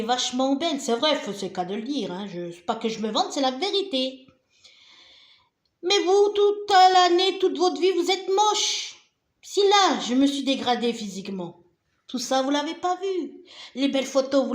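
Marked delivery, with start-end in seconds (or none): 5.8-8.9 scornful. Real, not acted. Scolding her critics.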